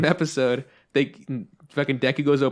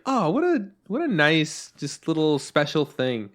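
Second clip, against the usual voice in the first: cooing delight; 4 semitones higher, slower than usual. Retold or imitated. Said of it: "I think it's like".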